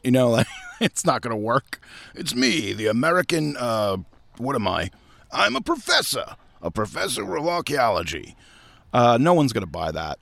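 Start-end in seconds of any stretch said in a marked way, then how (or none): 2.2-8.4 lightly voiced mock Thor, pitch swooping up; half-hearted, hammed-up Thor impression. Actor fumbling his lines as Indiana Jones, mock Thor voice. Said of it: "do the Thor voice".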